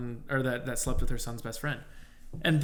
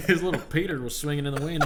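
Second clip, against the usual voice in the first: laughing; 3 semitones higher than usual. Real, not acted. Laughing retelling.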